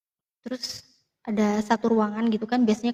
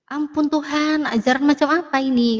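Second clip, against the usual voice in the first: imitated lament, higher pitch, no real tears; retold tearful dismay; 4 semitones higher, 3 dB louder than usual. Father reacts to child's conversion, retold pained exclamation. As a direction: cry out to God in mild mock anguish. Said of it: "sampai nangis-nangis gitu papaku".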